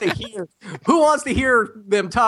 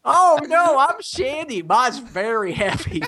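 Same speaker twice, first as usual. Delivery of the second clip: higher woman's voice, laughing at the end; cheerful put-on woman's voice; man doing a woman's voice; 5 semitones higher than usual. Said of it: "the girl show's impression".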